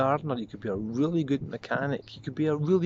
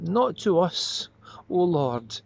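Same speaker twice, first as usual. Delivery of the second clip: slow, raised-pitch appeal to God; drawn-out higher entreaty; first plea; 5 semitones higher, slower than usual. Acted. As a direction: call it up slowly, pleading. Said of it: "And the second time".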